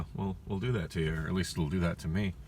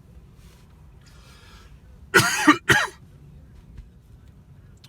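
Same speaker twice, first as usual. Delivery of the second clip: long hacking coughs; coughing fit; 7 dB louder than usual. Real, not acted. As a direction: keep coughing hard. Choking on a taquito.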